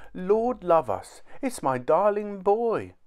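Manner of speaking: high, slow amazed exclamation; overjoyed mother. A narrator's reading. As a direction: cry out on finding a lost child. Mother rediscovers her lost son.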